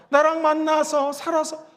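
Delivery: tender thanks. Shown as a demonstration. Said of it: "시작".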